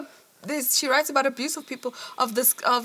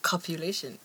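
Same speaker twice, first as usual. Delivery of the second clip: lower, measured reading voice; reading aloud; 5 semitones lower than usual. A narrator's reading. Podcaster reading an academic passage to co-host, measured read-aloud.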